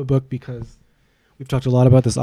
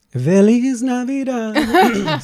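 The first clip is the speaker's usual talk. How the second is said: squeaky high voice; 11 semitones higher, 4 dB louder, much slower than usual. Pretend.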